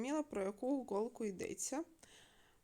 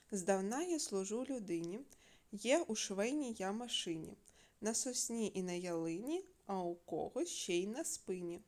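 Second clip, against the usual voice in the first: riddle reading. Shown as a demonstration. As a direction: recite the riddle with a lilt. Читає загадку дітям. (декламуючи загадку)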